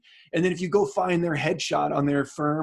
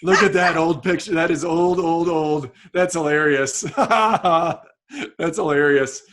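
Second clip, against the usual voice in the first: amused laughing; 5 dB louder than usual. Real, not acted. Laughing at an old picture.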